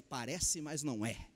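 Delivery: soft, low ad slogan quote; quoting an old ad. Retold or imitated. Preacher recalling an old TV advert slogan, softly. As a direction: murmur the old advert line. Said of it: "tinha uma propaganda, dizia".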